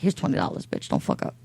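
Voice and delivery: low muttered demand; blunt demand. Retold or imitated. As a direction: say it flat and bossy. Imagined demand to nail tech.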